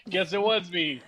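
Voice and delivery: sheepish laugh while admitting it; laughing admission. Real, not acted. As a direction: own up through real laughter. Laughing admission after denying it.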